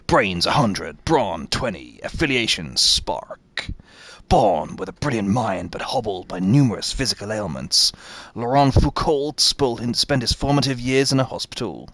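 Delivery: low, measured reading voice; character profile read-out. Acted. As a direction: read the bio out like a narrator, low and soft. Reads a character profile aloud.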